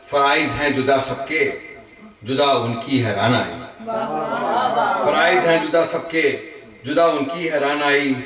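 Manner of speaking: measured Urdu verse with pauses between phrases; ghazal recitation. Acted. Poet shares his ghazal with friends at a gathering, measured recitation. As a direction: recite each line to the room, lifting the repeats.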